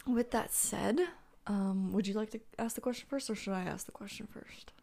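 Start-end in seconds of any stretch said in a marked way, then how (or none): 1.9-4.7 breathy unvoiced whisper. Real, not acted. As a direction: whisper it aside. Whispered aside to co-host.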